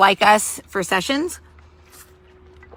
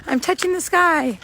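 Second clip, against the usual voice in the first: mock a showy praying churchgoer; mocking show-off; 11 semitones higher than usual. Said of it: "Don't be like".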